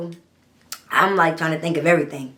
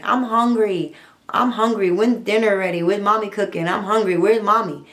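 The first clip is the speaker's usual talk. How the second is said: lightly voiced hungry little kids; a hint of children whining for dinner; 2 semitones higher than usual. Her kids upstairs calling for mom, lightly voiced and whiny.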